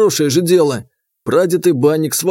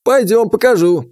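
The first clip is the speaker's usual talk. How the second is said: put-on higher, sudden call from an old man; old grandfather; 6 semitones higher than usual. A narrator's reading. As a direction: stop them short like a grandpa. Grandfather answers.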